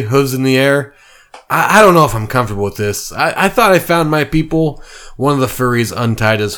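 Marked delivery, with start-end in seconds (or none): 1.5-4.8 quick, stammering unease; nervous stammer. Acted. Deer Man backing away from the mob, quickly stammering. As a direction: stumble over the words.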